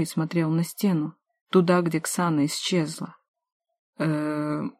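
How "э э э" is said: dumbfounded drawn-out uh; stunned inarticulate uh. A narrator's reading. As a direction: squeeze out a lost sound. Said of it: "выдавил нечленораздельное". (ошарашенное нечленораздельное мычание)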